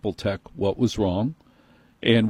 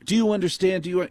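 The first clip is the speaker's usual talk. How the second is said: much higher, smug manager lecture; prissy manager voice; 8 semitones higher, faster than usual. Retold or imitated. Apple manager scolding the customer, high and smug. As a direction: lecture him from above, higher. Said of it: "He keeps going at me".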